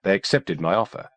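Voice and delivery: a hint of a cool woman doctor. A narrator's reading. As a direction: lightly voice the poised doctor. Kimberly voiced, calm doctor.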